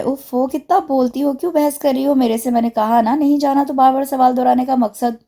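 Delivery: angry scolding. Acted. Waniya scolds maid Noori for nagging, angry. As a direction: scold her harshly, fed up with questions. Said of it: "उसने गुस्से से नूरी को बुरी तरह डांट दिया".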